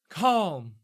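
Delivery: projected, drawn-out call for calm, no scream; gently but firmly hush a crowd; gentle command. Acted. Elven man quiets the cheering crowd, gentle yet projected command. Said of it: "a very gentle voice".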